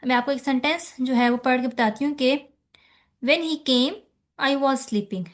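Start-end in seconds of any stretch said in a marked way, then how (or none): 3.2-5.2 came said with a falling tune and a short pause after. Shown as a demonstration. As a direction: drop the voice on came, then pause before I was sleeping. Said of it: "came पर जो मेरी एक falling tone आ रही है". (came पर गिरती tone, फिर छोटा सा ठहराव)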